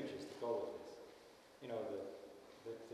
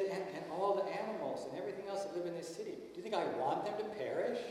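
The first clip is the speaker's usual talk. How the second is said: impassioned God; 5 semitones higher than usual. Retold or imitated. God telling Jonah how he feels about the people, impassioned. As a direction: plead for the people with feeling. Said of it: "some of these things are so emotional".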